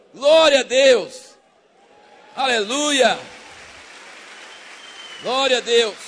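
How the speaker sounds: loud, drawn-out glory cry; exultant worship shout; loud praise. Real, not acted. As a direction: call it out to the whole church.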